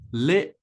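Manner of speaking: literature piece by piece, LIT, truh, chuh; broken into syllables. Shown as a demonstration. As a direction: separate literature into three parts with pauses, LIT stressed. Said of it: "stress is on the first syllable with lit".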